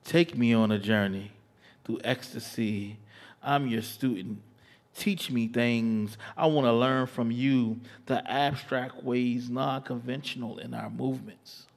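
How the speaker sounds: slow, sensual spoken word; poem recitation. Acted.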